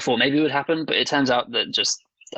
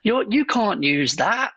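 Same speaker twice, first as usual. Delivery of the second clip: mock referee; 9 semitones higher, slower than usual.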